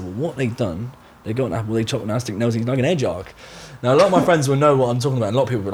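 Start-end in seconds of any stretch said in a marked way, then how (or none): 0.0-3.3 Edward's broad Somerset, only lightly done; the same villager explaining, in mild Somerset; Somerset accent. Retold or imitated. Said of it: "He said".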